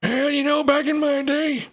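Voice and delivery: creaky grandpa reminiscing; very old man. Acted.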